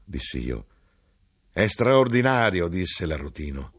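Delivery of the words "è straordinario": amazed exclamation. A narrator's reading. Grinder marvels after crying out.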